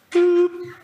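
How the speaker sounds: short high-pitched beep tone; high electronic boop. Retold or imitated. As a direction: chirp like a phone menu tone. Automated phone system tone.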